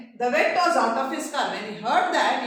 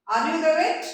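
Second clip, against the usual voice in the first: panic-stricken; 3 semitones higher than usual. Acted. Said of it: "In a breathless, panic-stricken voice".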